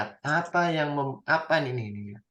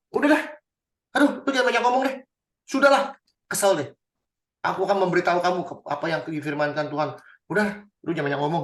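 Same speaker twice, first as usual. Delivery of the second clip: irritated dismissal. Acted. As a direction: cut the king off in annoyance. (kesal memotong, tinggi dan keras)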